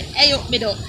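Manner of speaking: Hey said as "Ay", no H; Hey up with H dropped, duck with short oo vowel; Derbyshire dropped H. Shown as a demonstration. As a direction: model "ay up mi duck" for a child. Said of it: "you can't say your huh".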